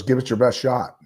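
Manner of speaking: lightly mimicked cocky challenge. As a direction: retell it with a touch of cockiness. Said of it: "in a really cocky tone of voice".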